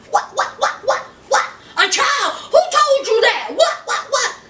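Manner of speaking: rising flustered denial, breaking into a shout; panicked stammer. Retold or imitated. Yuck Mouth caught by Anissa, flustered and panicking. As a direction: sputter like he's been caught.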